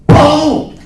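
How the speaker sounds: put-on very high, loud toddler squeal; a tiny girl shrieking her favorite word; toddler yelling ball. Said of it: "she does this thing where she's like".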